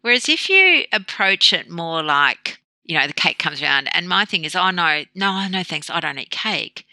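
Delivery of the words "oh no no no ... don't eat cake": easy, breezy polite refusal; empowered refusal. Retold or imitated. The cake comes around to the dieter, empowered refusal. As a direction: decline briskly, as a settled matter. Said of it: "you are empowered then by saying".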